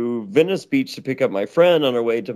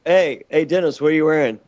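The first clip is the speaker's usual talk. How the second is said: creepy come-on; faster than usual. Pretend. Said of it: "I turned it creepy".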